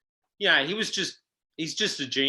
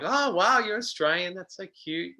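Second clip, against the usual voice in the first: gushing; 5 semitones higher than usual. Retold or imitated. Quoting gushing casting women.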